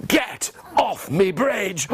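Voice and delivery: slow, spaced troll order; troll command. Shown as a demonstration. Leading children in the troll's order, slow command. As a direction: space out each word like a troll. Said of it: "Can you do that with me?".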